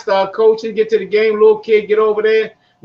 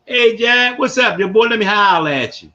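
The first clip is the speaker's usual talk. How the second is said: Baltimore street greeting. Shown as a demonstration. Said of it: "That's what they call that Baltimore shit".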